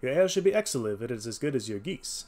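lightly voiced courteous detective; a friendly customer's compliment, lightly acted. Voices Holmes in dialogue.

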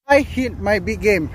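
loud and breathless, thrilled at the catch; real excitement after landing a big fish; excited, out of breath. Real, not acted. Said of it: "I'm out of breath".

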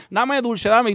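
daughter's high whine for sweets; whiny little girl. Retold or imitated. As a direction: beg for candy like a small daughter. Daughter begging for candy.

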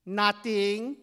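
high, loud, sheepish answer; guilty kid. Acted. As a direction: answer like a child caught out. Caught boys answer the neighbour.

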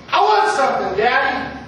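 lightly voiced insistent child; a hint of a small girl making demands; demanding little girl. Little daughter demanding candy from dad.

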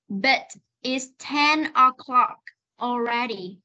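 "But it's ten o'clock already" word by word with pauses; slow reading. Shown as a demonstration. Teacher shows the class one last time, slow reading. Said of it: "Nếu đọc chậm thì nó sẽ là".

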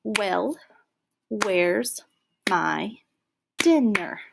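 Well, where's my dinner, each word separated by a pause; the teacher reads the cat's complaint beat by beat; counting syllables. Shown as a demonstration. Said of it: "And it says".

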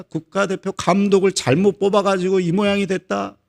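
acted indignant rant climbing in pitch; mock-outraged soccer fan. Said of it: "난리를 칩니다".

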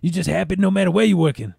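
lightly voiced raspy little coworker; a hint of a raspy put-on voice; Pinky. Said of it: "He got a little raspy little voice".

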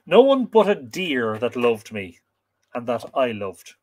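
calm storyteller reading a myth; story narration. A narrator's reading. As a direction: read aloud to listeners, measured.

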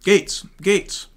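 loudspeaker call. Acted. Helicopter warned over loudspeaker.

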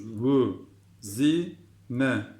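"Vü, zi, ne" in separate syllables; syllable-by-syllable reading. Shown as a demonstration. Teacher repeats the word, separated "Vü, zi, ne". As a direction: give each of "Vü, zi, ne" its own beat. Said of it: "diye okuyoruz".

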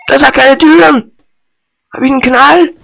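loud, high disbelief; indignant outcry. Real, not acted. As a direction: cry out in disbelief. Frustrated at room. (empörter Ausruf)

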